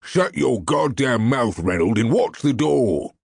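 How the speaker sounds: high, loud, angry character voice; exasperated crook telling him off; irritated retort. A narrator's reading. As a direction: scold your nervous partner while working. Acted angry retort to his partner.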